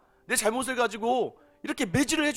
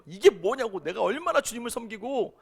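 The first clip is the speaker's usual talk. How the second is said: acted protest, moderately raised; retold bitter protest; 3 semitones higher, 4 dB louder than usual. Drunk father arguing with God in church, imitated in protest. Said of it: "하나님께 따지기 시작했대요".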